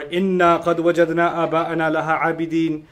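إِنَّا stressed, recited fast; emphatic recitation. Shown as a demonstration. Teacher showing another emphatic form, stressed إِنَّا. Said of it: "there's no".

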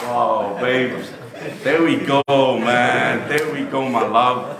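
loud, bright, sing-song "there we go"; mock delighted reply. Husband answering his wife's jab with loud mock cheer. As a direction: play it as a cheeky husband brushing it off.

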